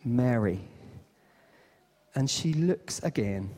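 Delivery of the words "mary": low, gentle call; tender naming. Acted. Jesus revealing himself to weeping Mary, low and tender. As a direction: drop low and say the name tenderly. Risen Jesus calls her by name.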